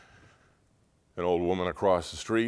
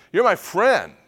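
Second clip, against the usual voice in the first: high, loud hurt protest; acted indignant outburst; retold anger; 10 semitones higher, 9 dB louder, slower than usual. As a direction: re-enact being mad at a friend. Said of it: "I mean, I was mad".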